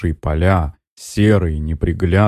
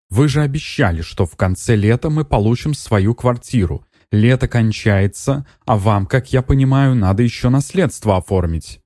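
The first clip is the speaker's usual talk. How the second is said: higher, insistent complaint of a buyer; complaining buyer; 5 semitones higher than usual. Acted. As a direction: press her, you promised. Buyer woman complains on phone. (покупательница с упрёком, выше голосом)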